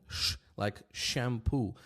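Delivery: "sh" hushed without voice, as in shampoo; voiceless sh sound. Shown as a demonstration. Teacher contrasting sounds for learners, voiceless sh. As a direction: demonstrate the unvibrated sh in "shampoo", slowly. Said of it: "When you say sh sound, like shampoo".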